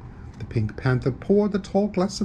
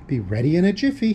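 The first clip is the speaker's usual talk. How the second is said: fast, pitched-up, breezy call; cheerful call; 4 semitones higher, faster than usual. Acted. Pink Panther doing the wash, cheerful call. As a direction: sing out brightly and quickly. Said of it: "he called cheerfully".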